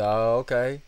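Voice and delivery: put-on country accent, loud rising acknowledgement; knowing reply in a put-on country accent. Customer hears about grass for sale, country accent. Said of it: "He's got a real country accent".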